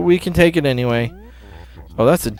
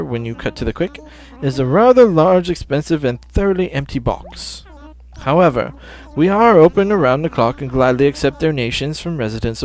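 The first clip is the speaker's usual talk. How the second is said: polite owl curator. Acted. Reads owl curator lines.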